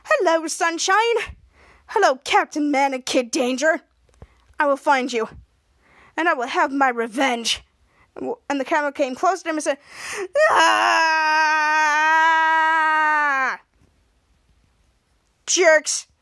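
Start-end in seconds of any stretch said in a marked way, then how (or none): 0.0-7.6 a hint of a gloating villain; lightly voiced villain threat; mock villain vow. Villain vows revenge. 10.5-16.1 loud frustrated cry; loud cry of frustration; angry yell. Retold or imitated. Toddler yells at heroes.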